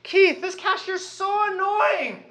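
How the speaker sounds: put-on whiny child yell. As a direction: whine like a spoiled kid. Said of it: "you turn around and you yell at me".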